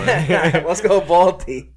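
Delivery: loud, drawn-out teasing chant; big playful rallying call; mock cheer. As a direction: cheer it slowly to needle your friends. Teasing mock cheer for rival city.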